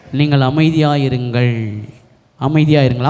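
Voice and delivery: low, steady reassurance; low-voiced call for calm. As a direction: quote Moses settling the people, pitched low. Moses calms the frightened people.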